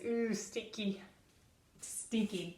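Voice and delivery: soft, disgusted ooh at a stinky smell; grossed-out ooh. Shown as a demonstration. Teacher to first graders, a soft grossed-out ooh. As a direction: pull back from a bad smell, softly.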